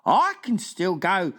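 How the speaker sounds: lightly voiced friendly giant, slow wondering question; BFG voice. Giant asking the Queen at breakfast, wondering. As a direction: puzzle it out like a big gentle giant.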